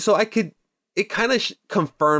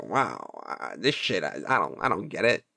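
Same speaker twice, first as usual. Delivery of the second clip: bad Scottish Connery accent, lower and softer; Sean Connery accent; 7 semitones lower, 7 dB quieter than usual. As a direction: mumble it low like a puzzled Sean Connery. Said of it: "That's a terrible accent".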